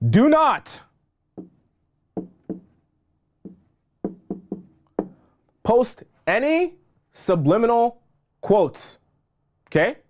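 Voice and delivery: urgent high plea, stretching every word; emphatic warning. Real, not acted. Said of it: "I'm gonna say it one more time".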